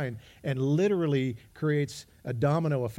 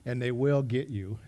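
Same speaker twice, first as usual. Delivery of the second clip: Liam Neeson threat; slower than usual. Retold or imitated. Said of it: "Liam Neeson in the movie Taken".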